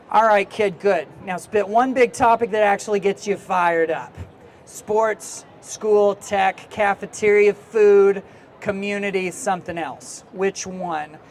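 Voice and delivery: loud curmudgeonly editor prodding a student; Stanley. Acted. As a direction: play a cranky old school newspaper editor pushing a kid. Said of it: "I don't know what this, this accent is that has come out of me".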